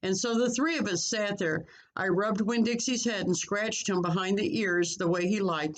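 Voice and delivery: put-on lively, expressive read-aloud for children; story narration. A narrator's reading. Reads story aloud to pupils.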